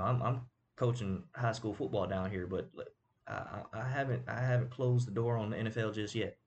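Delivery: light Southern country boy accent imitating Phillip Rivers. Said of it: "good country boy accent".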